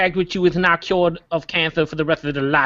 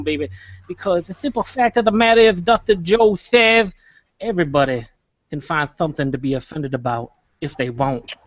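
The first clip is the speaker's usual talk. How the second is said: fake wrestler accent. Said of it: "with that fake accent".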